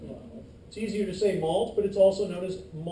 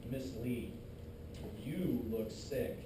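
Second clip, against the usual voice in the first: mock white blood cell; 9 semitones lower, 12 dB quieter than usual. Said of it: "I'm like".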